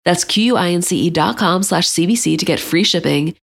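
upbeat, loud sponsor read. Acted. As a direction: sell it like a radio spot. Host reads a sponsor ad.

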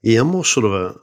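lightly put-on beach-soap Australian; casual Australian mate talk, trailing away softly; Summer Bay Aussie accent. Countering with a Summer Bay type, mock Australian. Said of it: "Summer Bay".

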